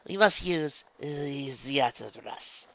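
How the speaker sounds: slow, drawn-out "auto brush"; deliberate pronouncement. Acted. Spa twin proposing the auto brush, deliberately. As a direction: announce "auto brush" slowly, as a verdict.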